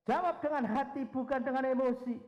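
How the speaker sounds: high and loud, Jawab and emosi hammered; loud emphatic charge. Real, not acted. Preacher charging the congregation, loud and high. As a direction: proclaim it to the room. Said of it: "repeating the key point".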